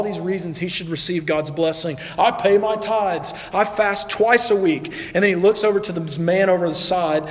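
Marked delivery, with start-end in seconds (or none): 2.2-4.9 slow, higher-pitched self-praise; mildly puffed-up, list your merits proudly; confident boasting. Acted. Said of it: "he's real confident".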